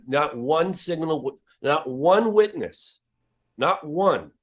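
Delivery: slow, weighty emphasis on "one", each "not one" drawn out and punched; stress on ONE. Real, not acted. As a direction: hammer the word "one" slowly, phrase by phrase. Insisting not one witness refused.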